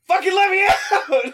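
very high, drawn-out frustrated scream; retold yelling. Player retells screaming into his useless microphone, frantic yell. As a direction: scream it slowly at full exasperation. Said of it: "I started yelling into my microphone".

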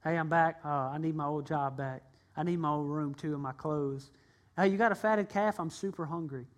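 lazy shrug of a son asking for everything back; careless flippant son. Acted. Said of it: "Not just come back and say".

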